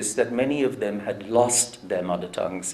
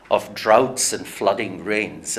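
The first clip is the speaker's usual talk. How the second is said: slow declaiming, leaning on "droughts" and letting the line fall; poem recitation; slower than usual. Shown as a demonstration. Lecturer finishes reciting the poem's line, slow and solemn. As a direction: recite "droughts and flooding rains" like a closing verse line. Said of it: "it goes like this".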